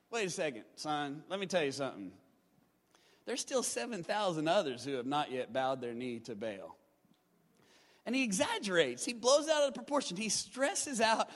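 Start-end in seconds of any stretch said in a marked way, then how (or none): 0.1-6.8 lower, calm fatherly reply; God's gentle correction. Retold or imitated. God answering Elijah, lower and calm. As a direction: settle him down like a patient father, lower. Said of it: "God goes".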